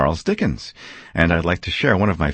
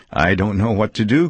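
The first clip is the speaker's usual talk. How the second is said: laughing and crying; 3 semitones higher than usual. Acted. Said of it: "cried Scrooge, laughing and crying".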